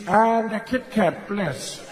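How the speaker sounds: slow, grand tone ordering a Kit Kat; lightly done Mandela asking for candy. Retold or imitated. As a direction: make a mundane request sound epic. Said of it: "because of that voice".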